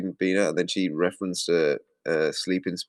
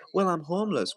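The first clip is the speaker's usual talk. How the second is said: high-pitched imitation of her excuse; mock plaintive reply; 9 semitones higher than usual. Her excusing herself when challenged, mock plaintive. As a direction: answer in a little high voice. Voices Candy's answer in acted exchange.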